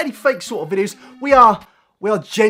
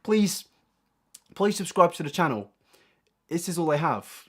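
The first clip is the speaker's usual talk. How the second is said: softer, lower, hammed-up begging; mock pleading; 4 semitones lower, 7 dB quieter than usual. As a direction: pretend desperate plea to viewers. Mock begging viewers to subscribe.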